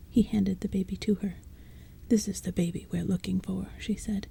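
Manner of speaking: hushed, breathy-free whisper read; whispered storytelling. A narrator's reading. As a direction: bedtime story told in a whisper. Narration continues whispered.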